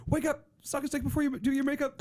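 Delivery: put-on high, laughing Aussie accent; high-pitched accent through laughter; mock Australian accent. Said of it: "the line where it says".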